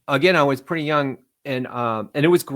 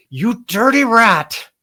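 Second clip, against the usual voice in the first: high, slow put-on gangster drawl; old movie gangster; 8 semitones higher, 6 dB louder, much slower than usual. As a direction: ham it up like an old film tough guy. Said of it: "something from an old movie".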